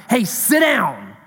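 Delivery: slow, firm call to sit; a teacher calling the room to order; mock Jesus command. Jesus tells the arguing disciples to sit, slow and firm.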